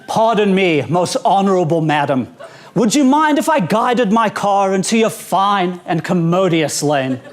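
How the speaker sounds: lightly hammed-up courtly request; exaggerated politeness. Driver signalling a lane change to a madam, mock-courteous. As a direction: beg permission with mock formality. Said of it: "Here's how the turn signal is interpreted".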